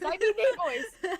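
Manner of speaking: slow, high, drawn-out pirate voice; pirate accent. Shown as a demonstration. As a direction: stretch it out like an old sea dog. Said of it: "I mean me boys".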